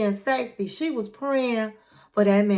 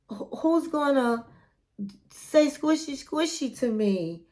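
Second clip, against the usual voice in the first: hammed-up tearful goodbye, half-hearted; mock crying. Matilda crying in the car that she'll miss Niles, mock-tearful whine. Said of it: "like, crying and says she's gonna miss him".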